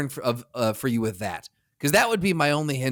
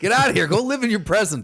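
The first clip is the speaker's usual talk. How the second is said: high, loud mock scolding; exasperated dismissal; 8 semitones higher, 4 dB louder than usual. Past self ordering the time traveller home, exasperated. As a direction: send the intruder packing, hammed-up.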